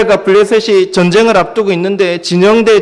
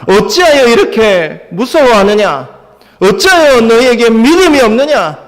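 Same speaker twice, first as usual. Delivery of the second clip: stern, raised-pitch scolding; emphatic reproving questions; forceful rebuke; 5 semitones higher than usual. Acted. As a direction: rebuke the frightened disciples firmly. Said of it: "세게 말씀하셨겠죠".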